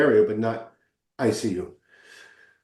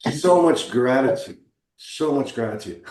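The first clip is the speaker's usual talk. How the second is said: emotional; slower than usual. Real, not acted. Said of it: "I'm getting emotional now".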